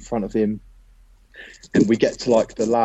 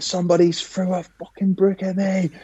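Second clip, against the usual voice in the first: put-on Scottish accent; 10 semitones higher than usual. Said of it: "in his Scottish accent".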